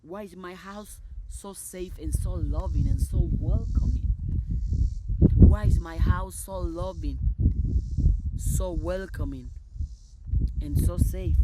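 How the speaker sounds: loud, emphatic proclamation; big, jubilant calling out; exultant affirmation. Real, not acted. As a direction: declare it joyfully at full volume. Exuberant affirmations called out.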